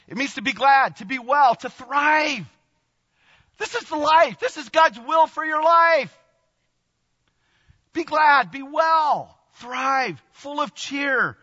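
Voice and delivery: high, loud and joyful, building; joyful high-energy preaching; excited preaching. Real, not acted. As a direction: proclaim it with rising joy. Preaching meaning of rejoice.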